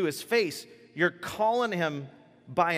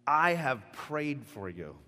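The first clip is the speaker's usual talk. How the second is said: slow tender; slower than usual. Acted. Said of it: "Just let that sink in".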